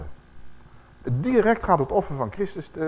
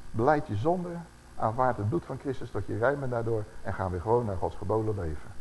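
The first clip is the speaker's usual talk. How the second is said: gentle counsel; 3 dB quieter than usual. Retold or imitated. Brother gently counsels a wandering brother.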